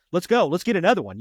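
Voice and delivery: raring to go, acted out; retold gung-ho eagerness. Young cop ready to catch somebody else, gung-ho. Acts out his ramped-up younger self.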